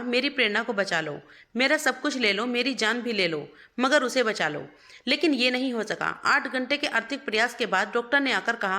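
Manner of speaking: measured, understated storytelling with mild pathos; sad story narration. A narrator's reading. Narrator telling listeners of Ravi and Prerna's tragedy, sad story narration. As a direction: read it as a sorrowful love story, unhurried.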